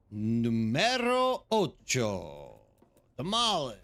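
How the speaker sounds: slow hammed-up Italian accent on "Numero ocho"; a cheesy fake Italian flourish; mock Italian announcer voice; bad Italian accent. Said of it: "using a bad Italian accent with Spanish".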